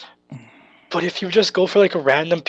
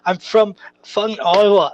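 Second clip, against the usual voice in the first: retold line in a rough Scottish accent. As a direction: imitate a Scotsman, lightly. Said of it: "goes into a Scottish accent".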